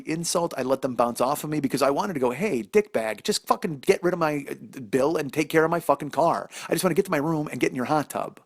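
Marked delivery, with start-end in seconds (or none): 2.3-8.4 high mock rant at the clerk; venting at the rude clerk, high and fast; imagined rant. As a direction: let it fly, pitched way up. Imagined outburst at desk clerk.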